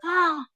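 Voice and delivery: high, drawn-in "ah" of realization; mock gasp. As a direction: imitate mother's sudden gasp. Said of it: "looks at me and goes".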